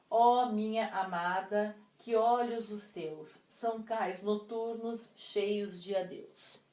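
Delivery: slow, measured verse recital; poem reading. Shown as a demonstration. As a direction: read the verse slowly, pausing between lines. Reads the verses aloud.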